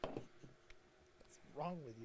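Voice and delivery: slow, breathy whispered echo; whispering. Pretend. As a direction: whisper it back, drawn out.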